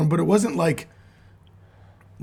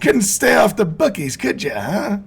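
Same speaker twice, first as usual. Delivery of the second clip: 1920s boxing announcer; 6 semitones higher than usual. Pretend. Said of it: "talking like a boxing announcer from nineteen twenty".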